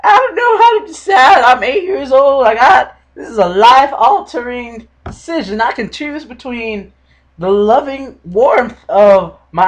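high, loud, put-on little boy voice; whiny kid Remy. Mocking Remy's dilemma to podcast listeners, high kid voice. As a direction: ham up an eight-year-old torn between choices. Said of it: "he was all like".

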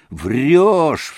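angry cry. A narrator's reading. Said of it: "вскричал Митя".

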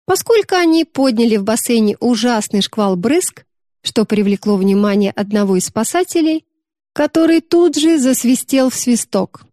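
usual speaking voice

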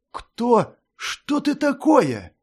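put-on girl aghast at the transformation; astonished gasp. A narrator's reading. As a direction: gasp at the monster in shock. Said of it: "изумлённо выдохнула Мира".

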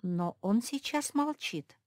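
usual speaking voice

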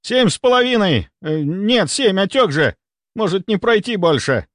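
high, pressured correction; urgent shouted answer. A narrator's reading. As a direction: call it out and correct yourself urgently. Doctor answers in emergency.

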